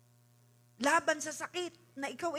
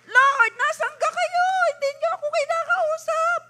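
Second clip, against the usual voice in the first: Moses calling out to God; 12 dB louder than usual. Acted. Moses asking the Lord where He is, loud high calling. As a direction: cry out to the heavens, stretched and pleading. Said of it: "Eh, noon si Moses".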